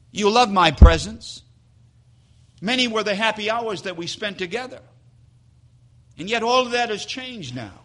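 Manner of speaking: understated heartbroken wife begging; mild sobbing plea. Acted. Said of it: "with sobbing emotion".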